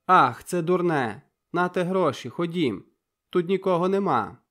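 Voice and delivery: loud, broken and flustered; agitated outburst. A narrator's reading. Zhenia blurting to Volodko, agitated and flustered. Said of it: "викрикнула вона вривно і схвильовано".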